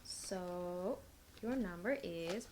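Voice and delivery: slow flat robotic delivery. Real, not acted. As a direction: speak like a robot reading numbers. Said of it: "why am I speaking like a robot?".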